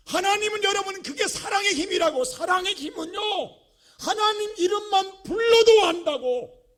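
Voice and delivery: loud, high, shouted sermon; full-force preaching. Real, not acted. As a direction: thunder it out to the congregation.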